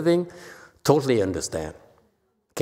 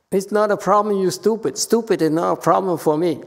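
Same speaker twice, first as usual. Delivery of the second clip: raised, heated scolding; retold yell; 7 semitones higher than usual. Teacher scolding a stubborn nun, raised and heated. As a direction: scold her, voice pitched up. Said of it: "I yelled at her".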